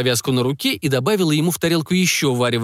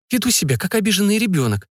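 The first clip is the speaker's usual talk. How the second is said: self-reproach; 6 semitones higher than usual. A narrator's reading. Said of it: "сама себя укорила".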